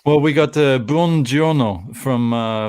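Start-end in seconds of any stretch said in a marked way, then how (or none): 0.8-1.9 "buongiorno" slowly in an amateur Italian accent; non-native stab at an Italian accent; attempted Italian accent. Shown as a demonstration. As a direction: have a careful go at Italian "buongiorno". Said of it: "accent from me and pronunciation from me".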